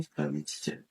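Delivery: barely voiced repeat of the count; whispered count. Shown as a demonstration. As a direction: whisper the count under your breath. Repeats count under breath.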